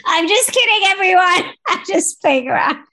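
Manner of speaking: laughing it off, high; giggling through the words. Real, not acted. Laughing after joking about wives.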